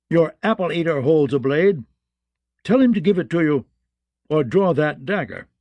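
hotheaded knight demanding a duel; menacing swordsman issuing a challenge. Acted. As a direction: goad the opponent into a fight.

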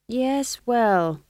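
high, doubtful response. A narrator's reading. Young witch hears the others' excuses, doubtfully. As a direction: begin high and doubting, then drop a little. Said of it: "said Magrat doubtfully".

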